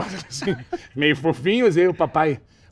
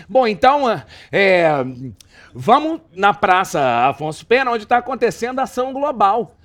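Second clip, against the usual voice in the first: flustered anchor; 4 semitones higher, 4 dB louder than usual. Retold or imitated. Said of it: "o âncora assumiu e falou".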